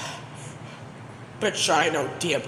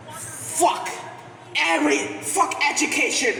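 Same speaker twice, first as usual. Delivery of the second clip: mock rage; 6 semitones higher than usual. Viewer quitting the videos, angry shouting. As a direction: storm off shouting. Final rant at education videos.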